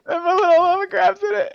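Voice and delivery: very high, fast squealing voice; excited cartoon screech. Keeps cartoon screech over card art.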